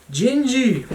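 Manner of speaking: high squeaky Gingy shout; Gingerbread Man voice. Retold or imitated. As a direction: squeal it like the Shrek cookie. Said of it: "It sounds like, uh, the gingerbread man".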